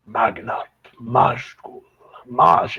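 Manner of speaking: quiet muttering and mumbling under the breath. Voicing a troglodyte who begins muttering: muttering under his breath. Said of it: "muttering under his breath".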